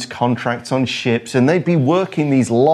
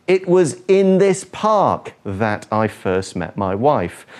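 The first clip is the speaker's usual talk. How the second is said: "in this park" given weight, slower; slow and lean on "in this park"; stressed example. Shown as a demonstration. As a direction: read it slowly and emphasize "in this park". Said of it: "For example".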